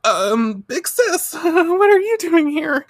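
put-on high, sheepish girly squeak; high sheepish kid sister; caught little sister. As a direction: play innocent in a squeaky voice.

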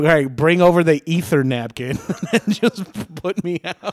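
high, loud mock pop-star voice; hammed-up high voice. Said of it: "Like a singer".

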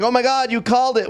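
high-pitched retold gasp of amazement; amazed exclamation. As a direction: imitate astonished onlookers, pitched well up. Amazed players react to her call.

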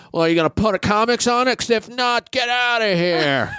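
comic club owner telling a hack to leave; imitating Tommy dismissing him. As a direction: rattle off the question, then drag out get outta here. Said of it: "He was like".

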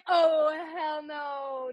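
high, drawn-out mock refusal; emphatic denial. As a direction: stretch out a scandalized refusal, high. Acts out her emphatic denial.

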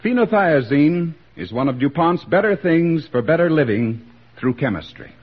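ordinary talk, nothing marked

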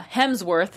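"Hemsworth" drawn out slowly, without an L; careful pronunciation. Shown as a demonstration. Guest proving she can say it, careful "Hemsworth". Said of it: "Nailed it?".

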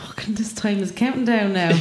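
whispered aside about time; hushed, voiceless aside. Real, not acted. Whispering to the crowd that her time is running out.

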